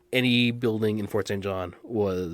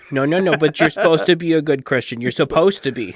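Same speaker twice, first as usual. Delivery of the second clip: sarcastic; 4 semitones higher, 5 dB louder than usual. Acted. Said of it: "I'm being extra shitty tonight".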